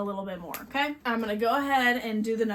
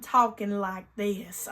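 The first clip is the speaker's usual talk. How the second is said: drawled mock accent for Dean; Dean's strong accent; 2 semitones lower, slower than usual. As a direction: parody the audiobook reader's Dean accent. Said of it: "talk in Dean's accent".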